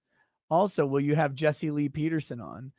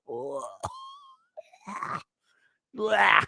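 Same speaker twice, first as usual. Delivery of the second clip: disgusted groan and "blah"; 6 semitones higher than usual. Real, not acted. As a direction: groan in revulsion at something gross. Revolted by gross story just read.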